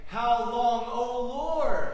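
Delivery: loud, high cry of "How long, O Lord?"; preacher voicing a prophet's loud lament. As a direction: call out to God in anguish. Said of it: "He's crying out".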